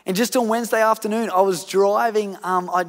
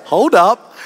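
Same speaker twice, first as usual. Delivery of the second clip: much louder, a mock sharp protest; indignant hold up; 2 semitones higher, 13 dB louder than usual. Tempted to talk back to the driver, loud mock protest. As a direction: stop him short, half-joking defiance. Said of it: "I was tempted to say".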